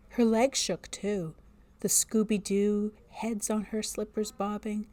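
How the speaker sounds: measured storybook reading voice; story narration. A narrator's reading. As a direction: read it like a spooky tale.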